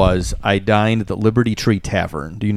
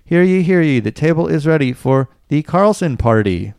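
town crier; 4 semitones higher than usual. Retold or imitated. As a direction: call out the table like a colonial crier. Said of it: "I have a video of it".

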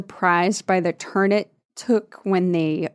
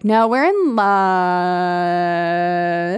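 very slow, drawn-out dreamy plea; mock lovesick; much slower than usual. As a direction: swoon it like lovestruck teens. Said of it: "Mark and Jade are like".

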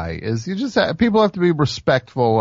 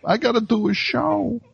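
high-pitched; 13 semitones higher than usual. Retold or imitated. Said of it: "I'm like".

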